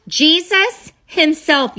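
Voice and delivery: Jesus himself, drawn out slow and loud; emphatic reveal. Real, not acted. Telling viewers who sat on the throne, with slow big emphasis.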